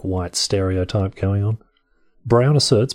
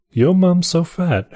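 higher, slow mock posh English accent drifting off; a wobbly posh English attempt; 9 semitones higher, 3 dB louder, slower than usual. Reading a yo mum joke, drifting mock posh English accent. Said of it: "I don't know what accent that is now".

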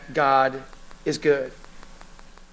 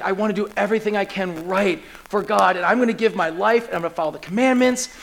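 acted earnest vow, a touch of desperation; mildly desperate, hurried resolve; desperate earnestness; faster than usual. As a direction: pile up the promises, picking up speed. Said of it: "so this desperation".

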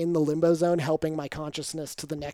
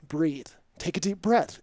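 measured, firm instruction; retold stern helper, lightly voiced; stern coaching; slower than usual. Helper to tripping stranger, mildly stern. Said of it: "he's very stern with me".

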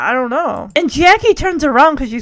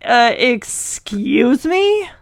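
indignant excuse me; much slower than usual. Pretend. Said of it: "I'd be like".

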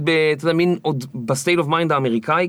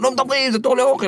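higher, hammed-up barked order; imitated screaming soldier; 8 semitones higher than usual. Red-faced soldier yelling at new recruit in food line, mock bark. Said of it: "מתחיל לצרוח עליי".

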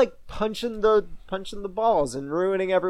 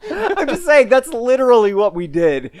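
laughing while talking; 8 semitones higher, 6 dB louder than usual. Real, not acted. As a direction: giggle through the words. Laughing mid-sentence.

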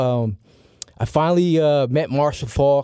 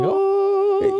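high, breathy oh of wonder; a stunned oh at the sight; awed gasp. Retold or imitated. Teen fan stepping onto the draft floor, awed oh.

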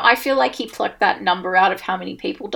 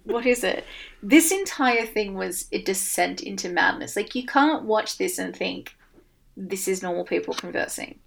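quiet disbelief; 3 semitones lower, 7 dB quieter than usual. Real, not acted. Disbelief at debate chaos.

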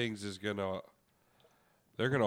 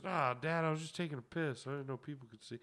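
higher, making excuses; sheepish son; 5 semitones higher, 5 dB quieter than usual. Retold or imitated. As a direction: lie it off like a caught kid. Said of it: "And he goes".

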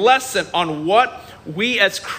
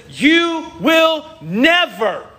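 higher, slow raised protest; indignant Peter; 6 semitones higher, much slower than usual. Retold or imitated. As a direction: jab the words like pointing a finger. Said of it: "And Peter says".

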